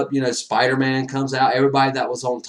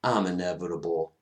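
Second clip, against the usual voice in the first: lightly voiced villain; 5 semitones lower, 7 dB quieter than usual. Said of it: "he goes".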